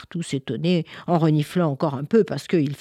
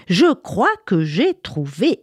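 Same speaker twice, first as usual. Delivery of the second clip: slower, drawn-out repeat; 3 semitones higher than usual. Acted. Little girl repeating her idea to the village children, slow and proud. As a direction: stretch the words, savouring the idea. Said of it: "s'écria".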